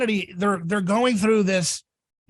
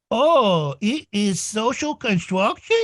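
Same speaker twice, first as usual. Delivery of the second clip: put-on toddler figuring it out; slower than usual. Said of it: "human species is like a toddler".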